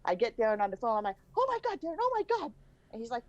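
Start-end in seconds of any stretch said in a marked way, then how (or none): 1.4-2.5 very high, breathless oh my God; excited shriek. Retold or imitated. Mom calling her son about a huge win, excited squeal. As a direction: squeal it like you just hit the jackpot.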